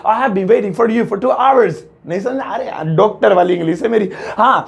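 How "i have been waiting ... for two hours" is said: slow, careful model English; slow clear teacher dictation; teaching model sentence. Shown as a demonstration. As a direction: say the right answer slowly. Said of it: "तो इसकी English होगी".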